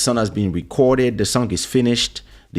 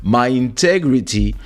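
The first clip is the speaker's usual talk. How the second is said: defiant rant; 3 semitones higher than usual. Retold or imitated. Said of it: "I don't care".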